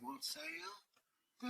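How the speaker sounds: drawn-out, lofty dragon question; slow dragon voice. Acted. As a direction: stretch it out like a pompous dragon.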